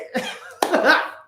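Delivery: real high-pitched laugh. Real, not acted. Host cracking up at own British bit, high laugh.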